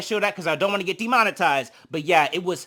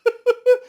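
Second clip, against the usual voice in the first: sudden high burst of laughter; 7 dB louder than usual. Real, not acted. Cracking up at Santana's messy comment, high laugh. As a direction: laugh out loud, high and bright.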